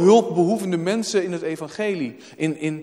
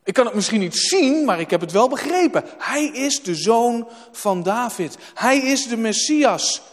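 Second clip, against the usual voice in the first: Bartimaeus's confession; 4 semitones higher than usual. Acted. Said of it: "Bartimaeus zegt".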